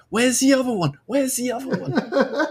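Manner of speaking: put-on high, loud child's voice; excited high-pitched kid; eager little boy. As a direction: call out like a small boy at a window. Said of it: "presses his face against the glass and he's like".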